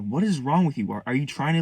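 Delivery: heated, accusing questions, short of screaming; retold angry lecture. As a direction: mimic relatives rounding on you. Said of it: "They started screaming at me".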